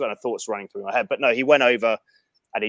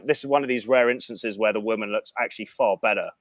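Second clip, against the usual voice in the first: ordinary delivery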